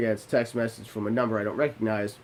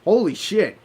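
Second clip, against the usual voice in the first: surprised exclamation; 8 semitones higher, 6 dB louder than usual. Retold or imitated. She notices the late time.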